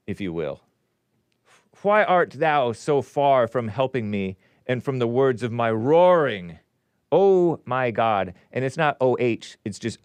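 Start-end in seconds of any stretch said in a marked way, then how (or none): 1.8-8.3 slow, emphatic King James recitation; solemn scripture reading. Acted. Host reading Psalm twenty-two to listeners, declamatory. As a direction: declaim it with drawn-out key words.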